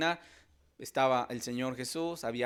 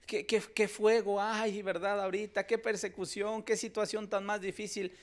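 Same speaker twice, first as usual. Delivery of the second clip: higher, plaintive mock lament; voicing a fretful Christian; 7 semitones higher than usual. Preacher voicing a discouraged believer, lightly plaintive. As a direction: whine like a Christian losing heart. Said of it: "a decir".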